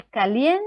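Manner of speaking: caliente with a long, rising LIEN before TE; stress on penultimate syllable. Shown as a demonstration. Teacher showing where the accent falls, stress on LIEN. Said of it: "penúltima sílaba".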